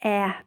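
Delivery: "ah" said as the short a of "cat"; American vowel. Shown as a demonstration. Showing the American vowel, "ah" said as "aa". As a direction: flatten "ah" to an "aa" as in "cat". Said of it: "in American accent, it's just ah".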